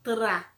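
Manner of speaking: "Tra" with a crisp tapped R after the T; tongue-flipped R. Shown as a demonstration. Teacher showing how to fold the tongue, "Tra" with tapped R. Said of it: "dobrar a linguinha".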